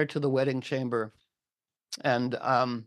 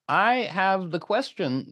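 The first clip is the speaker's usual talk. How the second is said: slow, raised-pitch mock grand announcement; lightly voiced Dame Ragnall; 5 semitones higher than usual. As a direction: announce it slowly, a hint of grandeur. Dame Ragnall makes her grand offer.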